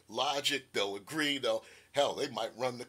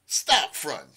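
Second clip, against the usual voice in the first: retort to son; 2 semitones higher, 12 dB louder than usual. Retold or imitated. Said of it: "And I say".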